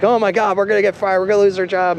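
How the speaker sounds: high-pitched, rapid mock panic; freaking out. Coworker afraid of losing his job, retold high panic. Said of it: "he started freaking out".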